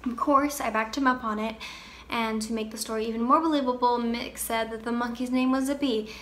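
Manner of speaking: understated monologue of a bereaved sister, soft and measured; Phoebe, grieving sister. Acted. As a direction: tell your brother's story simply, with pauses. Performs dramatic monologue as Phoebe.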